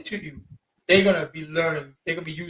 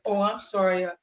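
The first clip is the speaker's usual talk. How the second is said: a hint of a shy polite woman; lightly voiced Japanese woman declining politely; mock polite refusal; 3 semitones higher, 3 dB quieter than usual. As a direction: softly brush him off, lightly imitated. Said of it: "whatever broken English they know".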